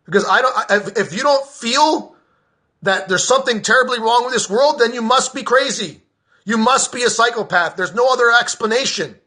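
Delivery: real heated rant, pitch riding up; getting mad. Real, not acted. Veteran berating indifferent listeners for not caring, getting mad. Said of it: "I am gonna get mad".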